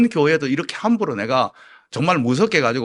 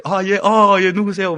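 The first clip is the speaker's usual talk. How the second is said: higher, eager-to-please politeness; kindly greeting; 4 semitones higher, 4 dB louder, slower than usual. Retold or imitated. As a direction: receive strangers courteously. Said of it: "저는 일단은 친절해야 돼요". (친절하게 맞이하는 말투)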